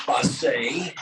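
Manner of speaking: French Basset, no final t; French pronunciation. Shown as a demonstration. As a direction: say Basset with a light French lilt. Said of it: "but in France".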